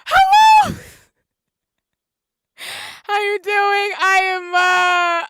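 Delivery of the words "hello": very high, tearful squeal of welcome; crying. Real, not acted. Streamer welcoming a newcomer mid-cry, high and tearful. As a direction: greet them through tears, voice squeezed high. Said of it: "I am sitting here crying right now".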